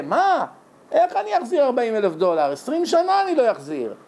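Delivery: high-pitched, protesting disbelief; dismayed son. Acted. בן המום מדרישת החזר. (בן המום ומוחה, בקול גבוה)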